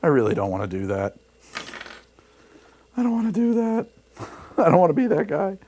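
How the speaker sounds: mock rant in Chris Bowden's voice; imitating Chris Bowden. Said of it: "as Chris Bowden said".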